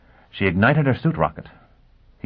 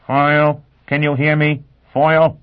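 radio voice; 8 semitones higher, 5 dB louder than usual. Acted. Dagenham calling on radio.

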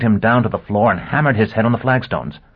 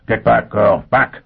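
urgent shout; 3 dB louder, slower than usual. Acted. Foyle warning her before smashing.

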